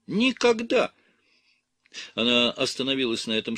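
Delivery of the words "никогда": high, loud cry of Никогда; Никогда said high and loud, falling at the end; emphatic never. Acted. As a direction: fling out Никогда as a final refusal. Nun's emphatic final refusal.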